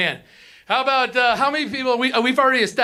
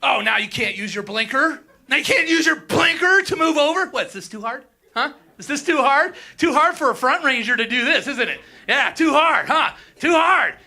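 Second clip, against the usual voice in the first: mocking taunt; 2 semitones higher than usual. Taunting driver in tunnel.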